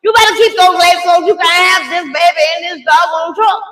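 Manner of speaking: high loud scolding command; stern loud order. Retold or imitated. Mother orders laboring daughter in truck, high loud scolding. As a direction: order her like a drill sergeant. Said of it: "I said".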